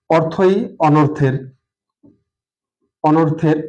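slow "অর্থই অনর্থের", left hanging as if dots follow; left unfinished. Shown as a demonstration. Teacher dictating an incomplete sentence, left unfinished. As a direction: draw out "অর্থই অনর্থের", then stop short. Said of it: "এখানে আমি dot dot dot".

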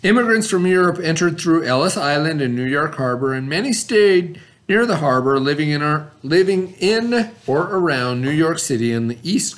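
steady, even classroom read; reading aloud from textbook. Acted. Teacher reading the textbook passage aloud, steady classroom reading. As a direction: read the passage out clearly for students.

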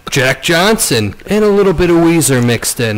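slow, drawn-out radio host listing; hammy movie-trailer pacing. Acted. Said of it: "whole podcast in radio voice".

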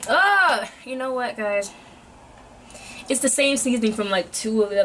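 talking between bites; muffled by food in mouth; mouth full, chewing. Real, not acted. Seen 1: Bites snack at -1; mouth closed and working while talking.

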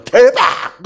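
high, booming exclamation; explosive, triumphant yell; jackpot shout. Acted. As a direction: burst out as if you just won big.

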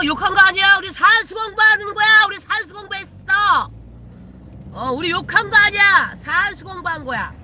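loud playful protest. Real, not acted. Insists swearing was arithmetic study.

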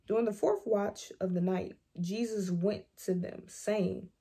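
measured Bible reading with pauses between phrases; lightly formal read-aloud voice; scripture reading. Acted.

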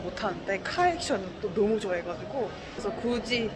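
speaking behind mask; through a face mask. Real, not acted. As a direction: mouth covered by cloth. Seen 2: white disposable mask covers mouth and nose throughout labelled words.

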